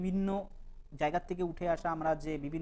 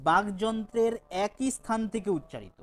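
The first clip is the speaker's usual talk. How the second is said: slow repetition; 5 dB louder, slower than usual. Shown as a demonstration. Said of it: "আবারও বলছি".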